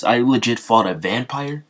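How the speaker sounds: retold excited questions, lightly acted; mildly excited. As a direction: lift the voice with a touch of eager wonder. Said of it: "he starts getting excited".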